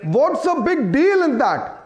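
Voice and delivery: drawn-out, very slow question; deliberate, half-speed debating retort; slow rhetorical challenge. Real, not acted. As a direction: stretch the words out to challenge the panel.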